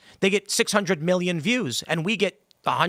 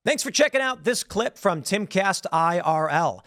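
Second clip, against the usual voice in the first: outro ad read. Acted. Host signing off to viewers, promo read. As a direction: announce the show like a promo.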